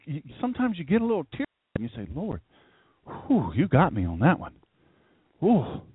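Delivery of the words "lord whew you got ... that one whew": 1 breathless awe. Retold or imitated. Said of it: "you gotta catch your breath".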